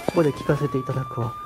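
squeaky high put-on lady voice; high falsetto character voice. Teacher voicing a prim pet character in a squeaky high voice. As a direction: pitch way up for a prim little character.

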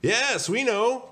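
high, loud, drawn-out chorus reply; squeaky crowd holler; shouting back. Acted. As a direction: shout back slowly in gleeful unison style. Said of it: "the donuts shouted back".

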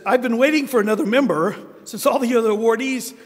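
lightly voiced old Italian scholar, amused; Italian accent. Old friend writing to Michael, in a light Italian accent. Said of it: "he has an Italian accent".

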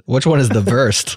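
put-on German accent, "worst" as "vorst". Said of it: "that's a standard German accent".

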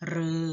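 เรอ as a long, isolated "roe"; roe sound. Shown as a demonstration. Teacher gives pupils the third sound of ฤ, long เรอ. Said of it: "ออกเสียง".

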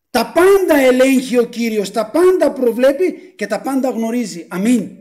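drawn-out, insistent preaching; emphatic proclamation. Real, not acted. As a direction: proclaim it to the whole congregation. Preacher proclaiming God's control. (εμφατική διακήρυξη από άμβωνος)

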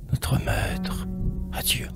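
very soft, whispery goodbye within recited verse; hushed farewell. Acted. Poet takes leave of cherished ideas, in a hushed near whisper. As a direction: drop away to a near whisper.

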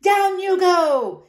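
high, slow loud order; commanding shout. A narrator's reading. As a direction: order her down. Horace orders.

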